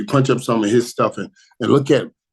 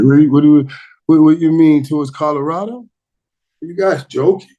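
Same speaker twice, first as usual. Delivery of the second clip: louder, higher, incredulous questions; mock disbelief; 4 semitones higher, 5 dB louder than usual. Host replying on the show, mock disbelief. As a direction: act out a baffled comeback.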